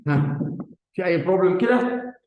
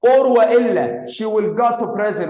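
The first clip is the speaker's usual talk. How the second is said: slow read-aloud; 2 semitones higher, 4 dB louder, much slower than usual. Shown as a demonstration. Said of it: "هقرأ أنا، حاضر تاني".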